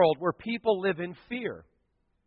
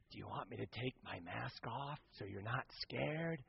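mock gentle offer; 6 semitones lower, 22 dB quieter than usual. Pastor teasing the scared girls.

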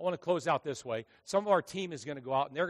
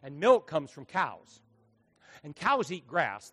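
slow building logic; 5 dB louder, slower than usual. Acted. Building comic punchline logic.

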